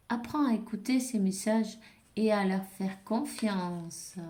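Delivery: reader voicing a guardian angel's message, clear read-aloud delivery; oracle message read-aloud. Guardian angel's message to the viewer, read-aloud style. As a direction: deliver the angel's message in measured, projected phrases.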